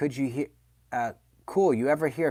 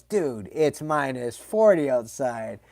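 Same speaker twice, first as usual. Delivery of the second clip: dad's slow point; slower than usual. Retold or imitated. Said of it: "Dad goes".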